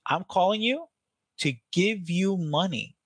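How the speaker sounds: cheerful caller pitch; excited. Shown as a demonstration. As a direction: sell the good news with energy. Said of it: "You need to sound excited as fuck".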